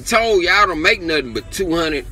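venting real anger at the WNBA player; angry rant. Real, not acted. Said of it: "But I'm that angry".

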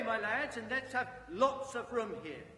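rally the lads cheerfully; jovial voice. Acted. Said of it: "comfortable, oily, rich, fat, jovial voice".

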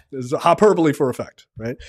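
ordinary talk, nothing marked

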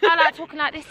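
casual imitation of an Essex accent. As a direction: put on a light Essex accent. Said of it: "so maybe Essex".

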